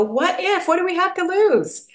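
high, bright daring challenge; high, carefree what if. Retold or imitated. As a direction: toss it off like a fearless kid. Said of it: "and go".

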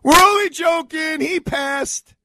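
high, loud, slow teasing we're only joking; jeering punchline shouted up high; mocking joke reveal. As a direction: colleagues on speakerphone gleefully revealing the prank, loud and high. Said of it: "you know what they go".

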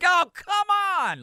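loud drawn-out New York yell; New York accent. Retold or imitated. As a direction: heckle it like a New York fan.

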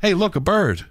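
high, goofy distracting voice; silly clown. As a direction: point away to fool them. Distraction joke, high far voice.

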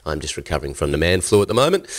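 stuffy nasal voice; nasal from a cold. Real, not acted. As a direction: talk through a blocked nose. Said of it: "sound quite nasally".

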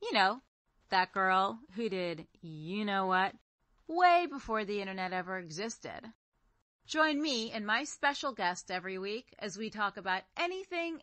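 podcast promo voice; scripted show intro. Acted.

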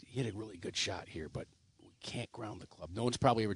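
very soft, near-whispered aside; confidential undertone. Retold or imitated. Scorer tipping off a kid about a rule, hushed. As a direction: keep it low and discreet. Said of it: "I kinda whispered".

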